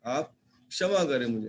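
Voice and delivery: a mildly tearful, slowed plea; hint of tears as the boy begs forgiveness. Sunil, close to tears, begs Raat Rani for forgiveness, mildly tearful. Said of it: "रुआसा होकर".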